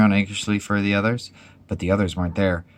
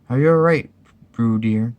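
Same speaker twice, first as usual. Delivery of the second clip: high, louder motherly call; concerned call; 4 semitones higher, 5 dB louder than usual. A narrator's reading. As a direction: call out to check on the child. Kanga calls to Roo in pocket.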